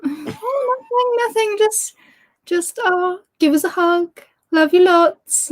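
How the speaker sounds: mimicking her fiancé's soppy innocence; sweet-talking boyfriend. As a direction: put on a sugary, innocent voice. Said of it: "started being all, like, soppy".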